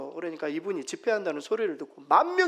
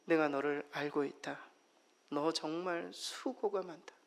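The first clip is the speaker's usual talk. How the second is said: tender reassurance; 3 dB quieter than usual. Retold or imitated. The Lord comforting a struggling believer, soft and tender. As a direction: soothe a worn-out friend gently. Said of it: "이렇게 말씀하세요".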